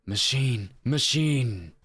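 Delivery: lightly voiced edgelord, testing the word; a touch of edgelord menace. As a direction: try out a brooding edgelord voice. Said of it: "try to do edgelord voice".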